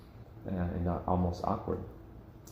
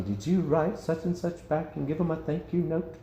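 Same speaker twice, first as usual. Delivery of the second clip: nagging churchgoer; 8 semitones higher than usual. Retold or imitated. People pressing him after gifts.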